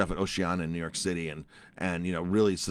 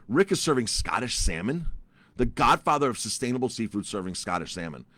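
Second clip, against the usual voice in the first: incredulous; 2 semitones higher than usual. Retold or imitated. Disbelief at chef's answer.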